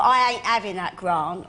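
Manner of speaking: broad Cockney "I ain't having that grant"; script's Cockney line. Retold or imitated. Quoting her EastEnders script line, broad Cockney "ain't". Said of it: "when I get the script, though, and I see".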